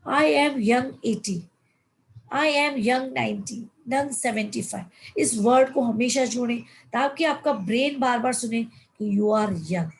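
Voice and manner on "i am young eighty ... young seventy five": slow, deliberate self-affirmation; slow, proud declaration of youth. Shown as a demonstration. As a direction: savour each word as you declare yourself young. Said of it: "तो बोले".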